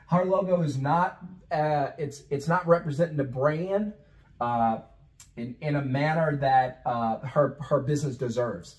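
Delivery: hesitant, picking words carefully; reworded tactfully to sound professional to the designer; diplomatic rephrasing. Shown as a demonstration. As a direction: soften the criticism, hunting for tactful words. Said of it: "but I'll say it differently".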